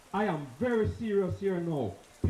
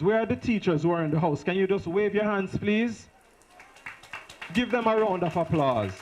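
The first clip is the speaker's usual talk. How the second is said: calling out; 4 dB louder than usual. Real, not acted. Calling out to the audience.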